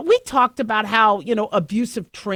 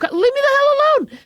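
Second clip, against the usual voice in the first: high, loud exasperated shout; exasperated yell; 4 dB louder than usual. Retold or imitated. Driver snapping at pushy drivers in a loud, high exasperated yell. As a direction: yell it at the cars crowding you.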